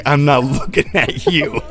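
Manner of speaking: high, slow mock disgust; disgusted friend. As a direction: pretend to disown him, drawn out.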